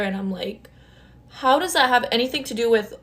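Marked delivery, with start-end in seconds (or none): 1.3-2.9 retold firm retort. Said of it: "That's literally what I told him".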